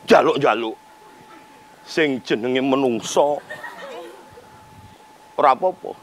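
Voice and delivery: hammy stage actor. Acted. Mock poetic lament.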